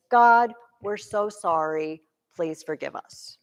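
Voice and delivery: lightly acted contrite begging; mock penitent plea. Voicing Adam and Eve pleading.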